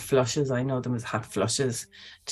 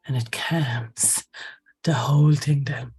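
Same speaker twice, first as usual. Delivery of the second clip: whisper; slower than usual. Acted. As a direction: breathe the words out as if soothing someone to sleep. Soothing description of calming balm.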